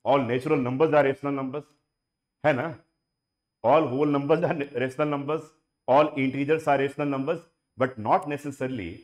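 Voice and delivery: deliberate lecture-style declaration; slow emphatic speech. Shown as a demonstration. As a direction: spell out each claim like a speech. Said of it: "अब बात बना रहा हूं".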